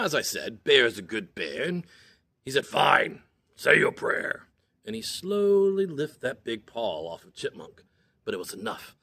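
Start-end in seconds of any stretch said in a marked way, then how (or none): 2.7-4.5 loud whispered grumble; gruff whisper. Acted. Bear grudgingly granting Chipmunk's prayer in a loud whisper.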